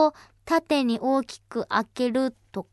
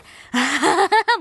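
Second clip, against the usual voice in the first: amused laugh; 4 dB louder than usual. Real, not acted. Radio host amused by a listener's request, laughing. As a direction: burst of real laughter.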